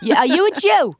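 Fern the housewife. Acted. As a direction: demand an answer, darling. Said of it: "Yeah, Fern".

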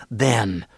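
"then" sinking down in a trailer announcer's drop; falling THEN. Shown as a demonstration. Comic showing the trailer guy's habit, dropped "then". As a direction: let "then" go down like a promo voice. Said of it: "do the thing where he goes down".

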